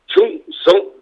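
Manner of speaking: sharp, high military salute call; korean military style. Pretend. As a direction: bark it like a soldier saluting. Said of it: "우리 군대식으로 한번 인사를 해볼까요?".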